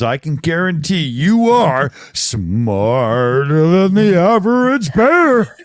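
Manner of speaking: cartoon bear announcer voice; Yogi Bear voice. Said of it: "Come on, Hanna-Barbera".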